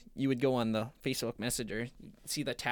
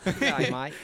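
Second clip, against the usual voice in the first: put-on matey greeting, British or Aussie; joky accented g'day; playful accent on a greeting; mock accent; 2 semitones higher, 4 dB louder than usual. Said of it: "got that British accent".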